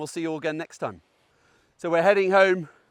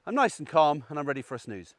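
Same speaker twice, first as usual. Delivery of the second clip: calm sleepy dog; 4 semitones lower, 4 dB quieter than usual. Retold or imitated. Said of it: "he goes".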